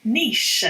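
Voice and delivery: niche slowly as "neesh", long ee and sh; demonstrated "neesh". Shown as a demonstration. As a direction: say niche to rhyme with "leash". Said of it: "It's spelt like niche".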